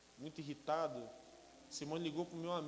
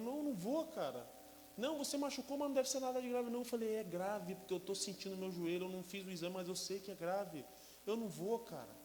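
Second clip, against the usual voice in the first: tearful refusal; 4 semitones higher than usual. Retold or imitated. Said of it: "Já comecei a chorar".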